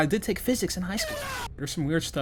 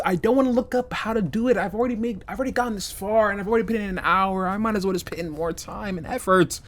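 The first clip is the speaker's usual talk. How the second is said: higher, hurried complaint; exasperated venting; 4 semitones higher, faster than usual. Real, not acted. Player refusing to look up the solution, exasperated rush.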